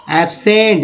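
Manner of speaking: एब्सेंट as "ab-sent", straight to s; silent C. Shown as a demonstration. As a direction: say एब्सेंट carefully with only an s sound. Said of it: "यानी सी नहीं पढ़ रहे हैं".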